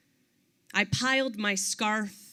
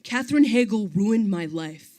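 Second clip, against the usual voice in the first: exasperated guy; 4 semitones higher, 6 dB louder than usual. Retold or imitated. Kyle's exasperated complaint quoted.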